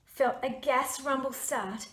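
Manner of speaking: slow the build, then explode the last word; building to a blast. A narrator's reading. Narrator building to the mammoth fart, ending in a shout.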